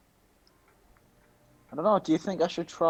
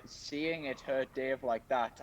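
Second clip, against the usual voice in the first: ordinary talk, nothing marked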